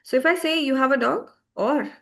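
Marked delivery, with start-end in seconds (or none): 0.6-1.3 statement turned question, DOG lifts at the end; "You have a dog" with a questioning rise; raised voice as a question. Shown as a demonstration. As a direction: raise your pitch on "dog" to ask. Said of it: "I'm raising my voice".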